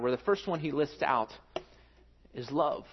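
usual speaking voice

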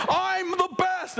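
high, slow, drawn-out brag; cocky boast. Pretend. Plant at the top of the canopy, slow cocky boast. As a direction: stretch it out like you're showing off. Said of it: "some of them are like".

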